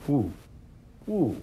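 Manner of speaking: rising awed exclamations; amazed ooh and whoa. Real, not acted. Priest tasting aged blend, real amazed whoa. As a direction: react as if a flavour just hit you. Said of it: "My mind just got blown".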